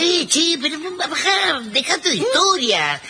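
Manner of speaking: laughing scold. Acted. Mother scolds daughter laughing.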